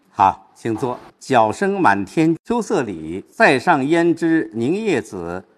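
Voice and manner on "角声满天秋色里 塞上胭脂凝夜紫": slow, stretched couplet; weighted recitation. Shown as a demonstration. Teacher reciting for a student's question, slow recitation. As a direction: recite slowly, building toward the second line. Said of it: "我们把它不是一样重".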